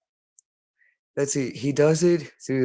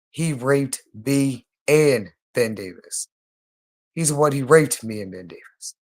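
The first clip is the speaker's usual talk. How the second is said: emphatic; 4 dB louder than usual. Real, not acted. Insisting emphatically to Brittany.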